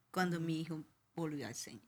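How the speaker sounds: whispered, breathless with awe. Real, not acted. Mother whispers to interviewer how her son returned. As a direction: lean in and whisper the miracle.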